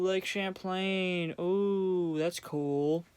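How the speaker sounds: slow, mock-impressed tourist voice; mock wonder. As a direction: mimic a dazzled tourist, slowly. Mocking tourists admiring Lake Champlain.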